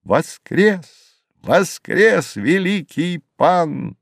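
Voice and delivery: high, swooping jubilant call; exultant high cry, not full shout. A narrator's reading. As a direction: proclaim it with rising joy, stretching the words. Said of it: "закричал".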